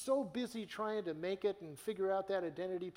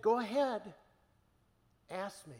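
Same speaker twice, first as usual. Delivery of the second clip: higher, louder gentle invitation; a light hint of Jesus inviting; Jesus speaking; 3 semitones higher, 4 dB louder than usual. Jesus voiced in retold vision.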